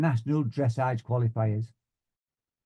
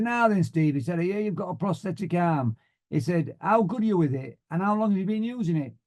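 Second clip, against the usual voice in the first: higher-pitched broad Yorkshire voice; broad Yorkshire accent; 6 semitones higher than usual. Retold or imitated. Flying instructor greeting his new student, broad Yorkshire accent. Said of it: "in this broad Yorkshire accent".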